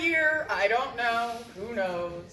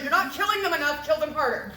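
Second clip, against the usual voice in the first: higher-pitched mock demand for more violence; mock bloodthirsty demand; 3 semitones higher, faster than usual. Olga eggs on her killers, mock demanding. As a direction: urge them on, lightly hammed-up. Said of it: "she laughed and was demanding violence".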